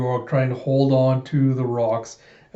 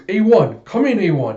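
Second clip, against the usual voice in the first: loud, higher calling out; urgent radio call; 7 semitones higher, 6 dB louder than usual. Retold or imitated. Bigot losing contact with Alita, urgent call. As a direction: call urgently into a dead intercom.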